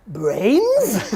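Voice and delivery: long, drawn-out zombie voice. Acted. Bob the Zombie opening his stand-up show, zombie voice. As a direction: groan it as a zombie's opening gag. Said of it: "delivers what he thinks is the greatest opening line".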